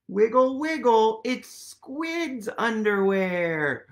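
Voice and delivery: sing-song wiggle, wiggle with a lift; playful reveal for kids; excited. Acted. Playful reveal read aloud.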